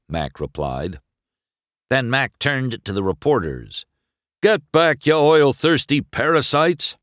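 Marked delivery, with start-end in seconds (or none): 4.4-7.0 loud, high telling-off; raised-voice indignant command; angry order. A narrator's reading. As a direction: drive the pack away. Mac orders reporters back.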